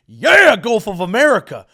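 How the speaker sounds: very high, shouted mock Japanese Southern twang; mock Japanese Southern accent. Mocking a cheering patriot, shouted mock Japanese Southern accent. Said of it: "kind of almost a Japanese Southern person".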